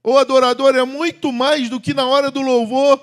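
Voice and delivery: fervent pulpit delivery; preaching. Acted. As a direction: proclaim it to the congregation. Preacher opening at force.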